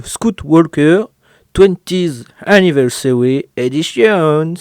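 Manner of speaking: put-on a French speaker hamming up an English accent, half joking; self-mocking English accent read slowly. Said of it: "avec mon magnifique accent anglais".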